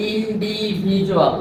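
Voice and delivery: ইন্ডিভিজুয়াল spelled out slowly, every syllable clear; slow model word. Shown as a demonstration. Teacher modelling ইন্ডিভিজুয়াল for pupils, slow and deliberate. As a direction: stretch out ইন্ডিভিজুয়াল, slow and even. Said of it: "যেমন এখানে".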